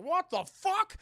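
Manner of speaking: high, loud outburst of disbelief; shocked mock yell. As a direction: yell it like someone suddenly trapped. Trapped killer voiced in retelling.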